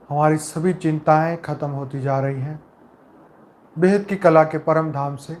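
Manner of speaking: calm, measured meditation voice with long pauses between phrases; guided meditation. Acted. Leader guiding souls with eyes closed into peace, calm meditative delivery.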